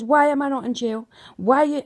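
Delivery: mother shouting her outrage at the court; retold scream. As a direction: throw it back at the police. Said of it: "I screamed at them".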